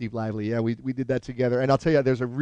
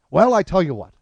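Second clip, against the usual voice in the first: higher, decisive pronouncement; comic impression, pitched up; Albert Brooks; 4 semitones higher, 4 dB louder than usual. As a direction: lay down a deal in his voice. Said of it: "I actually do an impression of him".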